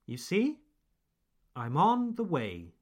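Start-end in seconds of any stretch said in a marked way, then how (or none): 1.5-2.7 "on" and "way" stressed, the small words light. Shown as a demonstration. Teacher repeating the natural version for listeners, stressing "on" and "way". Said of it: "Put the stress".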